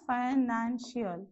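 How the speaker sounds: "financial" slowly split into syllables. Shown as a demonstration. Teacher answering how many syllables, "financial" slowly broken up. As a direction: sound out "financial" slowly, each syllable separate. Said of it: "So how many you have?".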